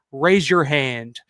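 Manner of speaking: slow, deliberate retold order; stern command. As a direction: imitate a man coolly singling someone out. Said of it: "stares right at me and points his finger".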